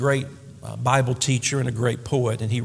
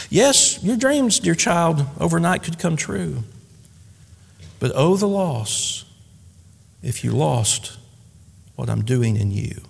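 tender poem recitation. A narrator's reading. God consoles a dear child in a poem, tenderly. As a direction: start lifted, then slow and settle.

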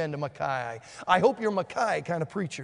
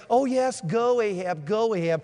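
mocking; 2 semitones higher, 3 dB louder than usual. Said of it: "Ahab knows he's mocking him".

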